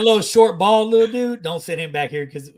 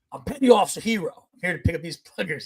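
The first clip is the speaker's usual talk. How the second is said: mildly authoritative retelling; with authority. Retold or imitated. Petty officer announcing himself to the Army guy, with authority. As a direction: state it like someone in charge. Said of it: "I said it with, like, authority".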